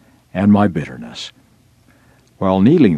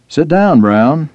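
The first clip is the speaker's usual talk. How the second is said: a higher, louder clipped command from a senior officer; curt general's order; 7 semitones higher, 5 dB louder, slower than usual. Retold or imitated. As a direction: snap the order down at a subordinate.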